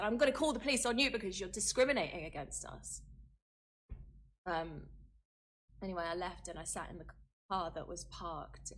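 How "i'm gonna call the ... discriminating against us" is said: retold angry threat. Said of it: "I said".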